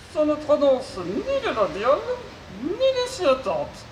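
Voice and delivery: mangle the consonants like a glitchy robot. Acted. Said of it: "souffre d'une pathologie vocale".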